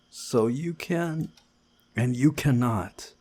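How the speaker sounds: bossy. Acted. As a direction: lay down the rule.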